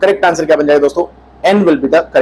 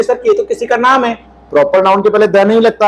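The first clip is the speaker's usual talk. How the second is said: imitating student; 4 semitones higher than usual. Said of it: "अब आप बोलोगे".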